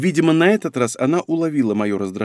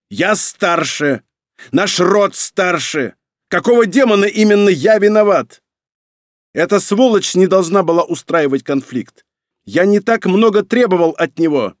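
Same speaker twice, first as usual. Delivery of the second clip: raised-pitch, loud indignant tirade; angry bark; 6 semitones higher, 5 dB louder than usual. A narrator's reading. Emperor defending himself to his son, angry barking. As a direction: hammer out each grievance at high pitch. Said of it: "рявкнул его отец".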